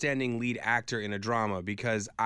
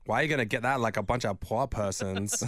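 put-on Anna Delvey accent. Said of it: "Jessica starts going".

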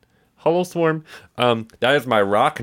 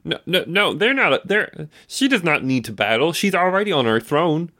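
flustered protest; 4 semitones higher than usual. Acted. Willie protests for leader.

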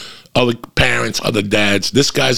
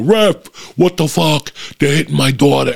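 mock yell; 5 semitones higher than usual. Dad yelling at the ref about his daughter, mock yell. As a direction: ham up an angry dad yelling. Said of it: "he would yell".

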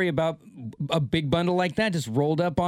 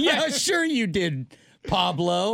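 sarcastic cop; 2 semitones higher, slower than usual. Pretend. Mocking cop reply.

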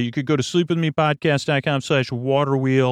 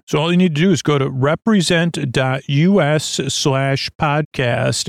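energetic, louder ad read; 3 dB louder than usual. Acted. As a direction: pitch it like a radio spot. Sponsor ad read.

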